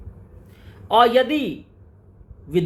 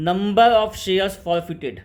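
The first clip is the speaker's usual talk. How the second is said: very slow, lower-pitched, word by word; slow dictation; 5 semitones lower, much slower than usual. Shown as a demonstration. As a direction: spell out the formula at writing speed. Teacher dictates formula slowly. (धीरे-धीरे, शब्द-शब्द लिखवाते हुए)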